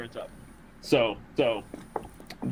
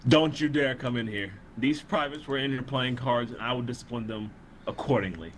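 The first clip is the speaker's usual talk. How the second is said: deceptive general voice. Acted. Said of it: "in my best deceptionary voice".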